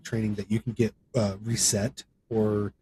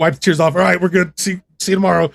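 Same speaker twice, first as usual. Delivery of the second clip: higher and louder, brisk buck-up; forced pep talk; 8 semitones higher, 9 dB louder than usual. Retold or imitated. Recruit to his crying bunkmate, loud forced pep talk. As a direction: shake off the tears with a loud rallying push. Recruits pepping each other up.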